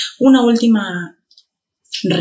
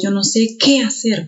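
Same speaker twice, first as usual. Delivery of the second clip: "qué" said with more force; teacher's emphatic "qué"; stress on QUÉ; 3 semitones higher than usual. Shown as a demonstration. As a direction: lean on "qué" to show it is stressed. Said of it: "se pronuncia con mayor fuerza".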